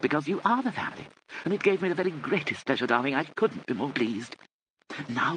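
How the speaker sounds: put-on high, airy elderly lady voice; fluttery old aunt. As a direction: gush like a vague dotty aunt. Aunt Kit voice.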